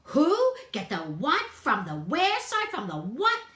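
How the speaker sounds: high loud mimicry of the bunny; sneering imitation; mocking the bunny. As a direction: varmint mimicking Buddy's confusion. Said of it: "The scruffy varmint repeated".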